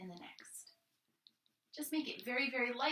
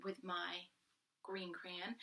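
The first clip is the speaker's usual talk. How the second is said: whisper; 3 semitones lower, 6 dB quieter, much slower than usual. Shown as a demonstration. Demoing whisper voice for crayon.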